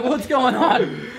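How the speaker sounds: slow, dopey zombie, half laughing. Pretend. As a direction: drag it out like a confused zombie. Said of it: "zombie would be like".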